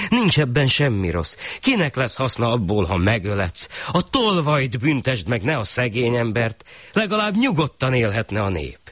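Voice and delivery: the neighbour reasoning with the shah; a hint of earnest protest.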